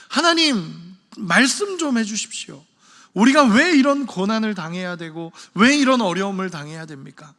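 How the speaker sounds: mildly acted insistent appeal; stubborn demand. Preacher voicing Habakkuk waiting for God's answer, lightly stubborn pleading. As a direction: hold your ground and demand a reply. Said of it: "그러면서 막 고집 부리고 있습니다".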